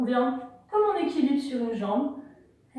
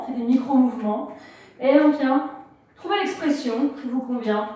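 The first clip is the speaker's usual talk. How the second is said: louder, faster, pushing the class on; rally them to move freely and faster; energetic coaching; 4 dB louder than usual. Acted. Yoga teacher pushing the class into fast free movement, loud and quick.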